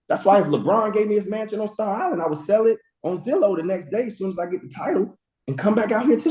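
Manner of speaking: high, whiny complaining mom voice; mocking mom's whiny voice. Son mimicking his mom's endless complaints, high whiny voice. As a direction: whine it like a complaining mother.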